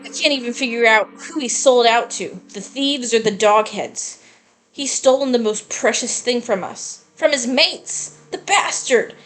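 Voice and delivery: rising indignant outburst, pitch climbing high; a betrayed kid getting worked up; angry gang member. Acted. Streamer voicing a gang member furious about the traitor, building outrage.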